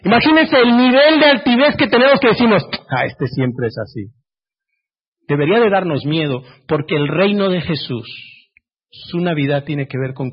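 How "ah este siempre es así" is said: low, dismissive scoff; mock-proud low scoff; scornful sneer. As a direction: sneer it down your nose. Mocking proud believers.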